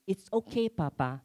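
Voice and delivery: lightly voiced child, high start dropping on Papa; small son's reply, lifted then falling; imitating young son. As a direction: gently imitate a child forgiving his father. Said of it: "his response will be like this".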